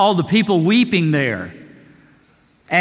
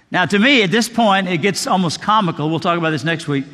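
ordinary delivery

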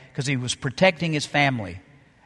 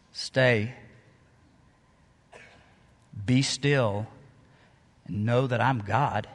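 softer and slower, calm divine voice; voice of God; 5 semitones lower, 7 dB quieter, much slower than usual. Acted. God quietly tells a waiting believer to be still, in a soft slow voice. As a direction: speak it softly and slowly as God, hushed and still. God's voice in a sermon.

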